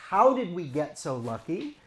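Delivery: tender and grateful; sincere parents. Retold or imitated. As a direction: parents marvelling at their daughter. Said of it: "we say".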